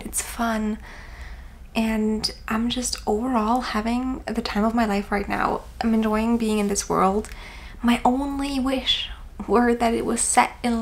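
hushed late-night voice; whispering. Real, not acted. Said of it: "I have to whisper".

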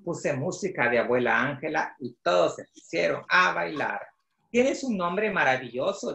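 measured read-aloud storytelling in Spanish; story narration. A narrator's reading. Author reading his book in Spanish to children, storytelling voice.

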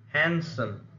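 "handsome" with HAND punched, the ending light; first-syllable stress. Shown as a demonstration. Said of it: "the first syllable of such words".

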